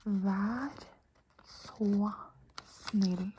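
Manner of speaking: slow, one word at a time; spaced-out model of a phrase; teacher's demonstration. Shown as a demonstration. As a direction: pause after each word for the learner. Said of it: "I'll say it for you".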